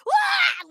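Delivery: high mock "Wah!" yelp of delight; excited yelp. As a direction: yelp up high, thrilled, not scared. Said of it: "not in a scared way".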